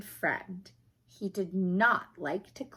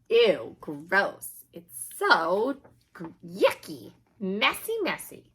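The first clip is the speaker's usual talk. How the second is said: slow, disgusted ew, gross; 4 dB louder than usual. Acted. Reader comments on the trash pile, grossed out. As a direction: groan at the yucky mess.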